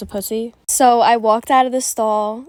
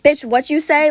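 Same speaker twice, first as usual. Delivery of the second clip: mock confrontational challenge, pitched up; imagined snapping back; 4 semitones higher than usual. Wishing she had confronted the gossiping girls, mock snapping back. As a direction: throw out a sassy challenge, higher. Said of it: "I should have snapped on them".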